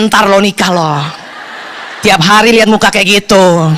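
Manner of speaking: low, knowing aside; muttered inner retort. Retold or imitated. Speaker silently answering unmarried Gen Z, low and wry. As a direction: say it low, as a private thought. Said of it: "Dalam hati saya".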